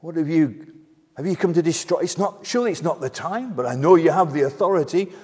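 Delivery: trembling demon. Acted. Demon trembling before Jesus's authority, fearful pleading. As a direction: stumble through it in fearful haste. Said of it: "is trembling here".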